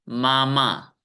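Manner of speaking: मामा in two drawn-out, even pieces; syllable by syllable. Shown as a demonstration. Teacher shows class two pieces in मामा, evenly drawn out. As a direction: say मामा as two equal beats. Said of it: "टुकड़े होते हैं".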